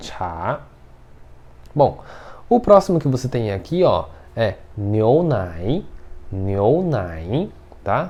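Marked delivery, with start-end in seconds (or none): 0.0-0.6 chá climbing upward in pitch. Tone lesson in Portuguese, reading the syllable: rising pitch on chá. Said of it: "você vai subindo por causa da entonação".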